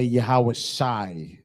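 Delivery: "Yahweh Shai" drawn out syllable by syllable; careful teaching pronunciation of "Yahweh Shai"; Hebrew name said slowly. Shown as a demonstration. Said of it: "Like we say".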